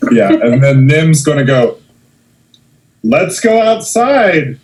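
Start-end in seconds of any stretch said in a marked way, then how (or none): 3.0-4.6 high, slow coy invitation. Acted. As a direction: draw it out sweetly, playing it up. Nim flirting invitation.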